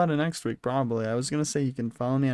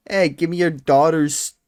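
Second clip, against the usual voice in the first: mocking creepy voice; 4 dB louder than usual. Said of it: "You don't need to go".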